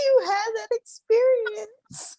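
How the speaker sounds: high, slow, cooing mock-tearful voice; touched, teary. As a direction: gush as if about to cry. Touched by friend's date story.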